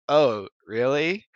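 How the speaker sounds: slow, drawn-out doubtful oh really; mock skeptical friend. Imitating the female friend's skeptical reply, slow and doubtful. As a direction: drag it out like a judging friend. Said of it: "she's like".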